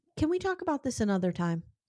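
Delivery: put-on very calm, cool, soft delivery. Retelling an argument over a canceled sleepover, Meredith answering: imitating Meredith's calm, cool voice. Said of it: "in her very calm, cool voice".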